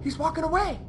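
hushed, careful not to be noticed; hushed relief. Real, not acted. Player watching enemy walk away, hushed.

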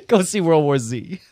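laughing through a mock movie plug; amused half-laughed slogan. Real, not acted. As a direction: chuckle while you say it. Mock promo line, laughing.

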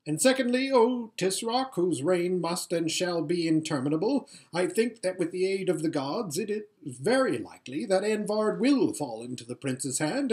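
high, fawning courtier voice; oily scheming vizier. Acted. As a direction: flatter him, all oily deference. Vizier flatters the Tisroc.

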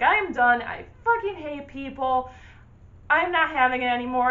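fed up and furious, spit it out; seething outburst. Retold or imitated. Retelling her fury at the spider-smashing guy, angry outburst. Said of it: "I was just seething".

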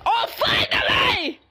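Shrimpo. Acted. Angry shrimp done waiting, exasperated mock shout. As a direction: yell it in exasperation, hammed up. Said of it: "play as this little angry shrimp".

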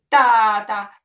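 loud, glad cry of Dad; child's exclamation. A narrator's reading. Jojo cries out to his dad, loud and glad. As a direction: call out to Dad with relief. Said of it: "exclamă Jojo".

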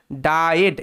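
Died said as "dai-ed"; pronounced DAI-ED. Shown as a demonstration. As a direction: give Died its "dai" then "ed". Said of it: "এটার উচ্চারণটা ডাইয়েড".

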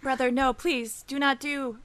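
deliberately wooden plea; badly faked concern for a brother; emotionless pleading. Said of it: "I've seen holograms show more emotion".

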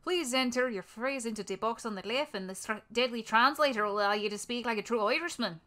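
sing-song attempt at an Irish accent; put-on Irish accent. Practising on translator text, put-on Irish accent. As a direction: read it out in a mock Irish brogue. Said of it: "the pitch and the accent".

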